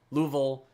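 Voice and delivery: Louisville as two syllables, LOO-vul; Louisville squashed, no "eh" inside; middle vowel dropped. Shown as a demonstration. Streamer contrasting the accented version, middle vowel dropped. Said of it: "It's not Louisville".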